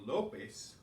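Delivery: "Lopez" said as LO-pez; "Lopez" with LO strong and pez light; stress on first syllable. Shown as a demonstration. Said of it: "of the first of two syllables".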